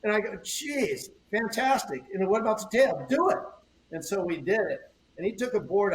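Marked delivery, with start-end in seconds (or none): 0.4-3.4 rising excitement from a mock gasp to an eager order; amazed go-ahead. Shaper retelling his delighted reply to the surfer, excited and higher.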